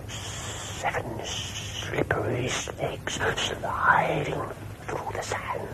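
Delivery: very slow whisper, "Seven slippery snakes sliding" with hissing s; drawn-out s like a snake. Shown as a demonstration. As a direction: hiss each s in "slippery snakes" slowly. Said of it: "sounds a bit like a snake hissing".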